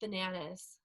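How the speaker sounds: whisper-like menace over a word; mock spooky calm voice. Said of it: "your Calm app would be like".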